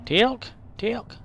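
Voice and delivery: calling out. Pretend. Calling a game character over.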